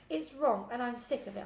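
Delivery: shouted. Acted. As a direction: shout it at the foster mum. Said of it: "I shouted".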